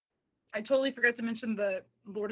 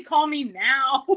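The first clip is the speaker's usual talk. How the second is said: slow sultry mock; 5 semitones higher, 9 dB louder, much slower than usual. Imagined Sophie line, slow.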